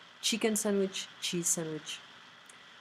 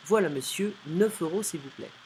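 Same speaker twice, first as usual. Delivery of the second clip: loud brisk waiter; curt snobby waiter; 3 semitones higher, 5 dB louder than usual. Acted. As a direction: snap out the price like a busy waiter. Waiter gives the bill.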